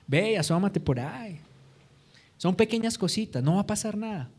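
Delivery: lightly voiced casual tempter, mostly soft; Satanás. Tempter to David about staying at the palace, lightly coaxing. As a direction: play the temptation down, a hint of coaxing. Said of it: "La primera mentira que usa Satanás es decirte".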